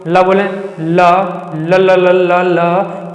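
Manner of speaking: ल ल repeated in a sing-song chant; drawn-out l demo. Shown as a demonstration. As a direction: chant the ल sounds so air passes the tongue's sides. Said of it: "ल बोल के देखें आप". (गुनगुनाते हुए ल ल का अभ्यास)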